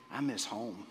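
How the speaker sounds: tender homesickness. Real, not acted. Pastor confesses homesickness to congregation.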